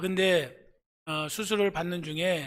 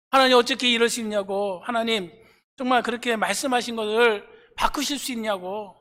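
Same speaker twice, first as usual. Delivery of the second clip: indignant, raised complaint; dead woman arguing with God over the broken promise; protesting to God; 3 semitones higher, 4 dB louder than usual. Acted. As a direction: argue back in disbelief. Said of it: "이렇게 막 따지는 거예요".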